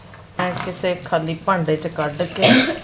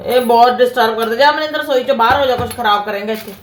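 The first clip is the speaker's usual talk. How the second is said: scolding; 3 semitones higher, 5 dB louder than usual. Real, not acted. Mother scolds son in kitchen.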